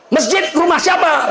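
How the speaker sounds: high, slow demanding question; stern interrogation. Retold or imitated. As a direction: angel grilling the sinner. Angel interrogates.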